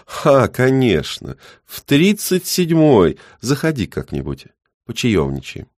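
put-on high, slow, loud old man; cheerful old neighbour inviting; jolly old man.

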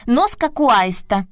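high, slow frog croak. Acted. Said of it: "квакнула другая".

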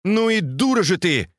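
lightly voiced outburst; a mild exasperated cry; exclaiming. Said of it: "вскричал Бао Юй". (сдержанный вскрик)

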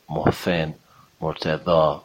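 محسن and مرتضی with th sounds for s and z; imitated lisp. Shown as a demonstration. Teacher imitating lisping speakers, مرتضی with a voiced th. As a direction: lisp محسن as "Mohthen", tongue on teeth. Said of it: "اینا که نوک زبونی هستن".

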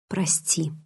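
soft, low apology full of remorse; deep remorse. A narrator's reading. Edward apologizing to Bella for making her cry, soft and remorseful. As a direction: say sorry softly, with deep regret. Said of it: "В бархатном голосе слышалось глубокое раскаяние".

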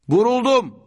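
high, loud shout of shock; wounded cry. A narrator's reading. Shot youth cries out to friends, shouting. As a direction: cry out as if just hit. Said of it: "diye bağırdı gençlerden biri".

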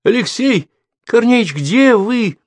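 high, slow anxious cry; a choked-off desperate call. A narrator's reading. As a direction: call out in rising panic. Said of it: "хотела крикнуть она".

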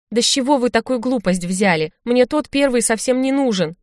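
put-on the girl protests to the shaman; protesting. A narrator's reading. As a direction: push back, protesting hard. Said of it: "запротестовала девушка".

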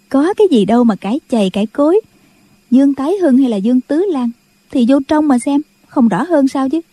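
a hint of a cheeky young girl laughing to herself; amused young woman. Young girl whispering mockery about the quarreling brothers, amused. Linh San mocks the quarrel.

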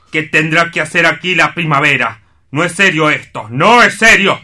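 loud, high, indignant protest. Acted. Assistant protests the changes.

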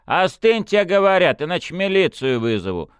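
loud, high warning shout; stern shout. A narrator's reading. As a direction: threaten him loudly. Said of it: "прикрикнул Фёдор".

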